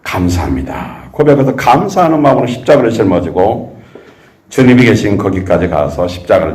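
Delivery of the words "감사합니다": soft, slow grateful murmur; quiet thanks. Retold or imitated. Disciple carrying the cross gives soft, slow thanks. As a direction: say thanks gently under the cross. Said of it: "그는 항상 어떻게 해요?".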